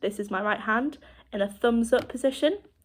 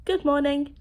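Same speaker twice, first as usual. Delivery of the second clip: higher-pitched sample greeting; 5 semitones higher than usual. Shown as a demonstration. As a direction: give a demonstration good morning, pitched up. Demonstrating a greeting with expression.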